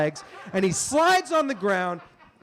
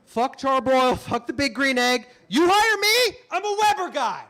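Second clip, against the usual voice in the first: mock hard sell; 5 semitones higher than usual. Actor pitching himself to grill casting, hammed-up. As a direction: sell yourself like a desperate ad man.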